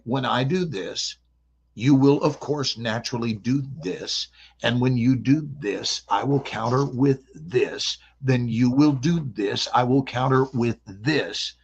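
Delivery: slow, measured strategist thinking aloud; calculating chess master. Acted. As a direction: lay out each move deliberately. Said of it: "And they think".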